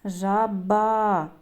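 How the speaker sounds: "Жаба" with the last а held long; final vowel highlighted. Shown as a demonstration. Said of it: "а, голосний".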